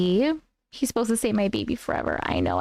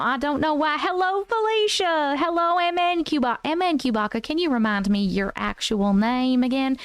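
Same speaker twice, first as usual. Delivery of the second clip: put-on Southern accent. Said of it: "we're done with accents for the moment".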